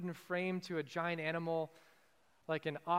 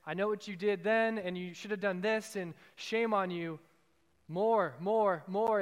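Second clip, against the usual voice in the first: a louder, scolding taskmaster voice that shames the listener; harsh demanding Savior voice; 5 dB louder than usual. Retold or imitated. Preacher imitates the harsh Savior people imagine, loud and scolding. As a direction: bark blame and demand more. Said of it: "that's the voice that we imagine coming from our Savior".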